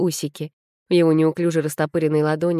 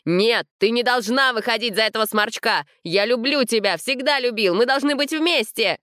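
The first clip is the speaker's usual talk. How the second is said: much higher, desperate pleading cry; heartrending cry; 6 semitones higher than usual. A narrator's reading. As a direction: beg her not to marry him. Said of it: "душераздирающий крик". (душераздирающий крик, гораздо выше)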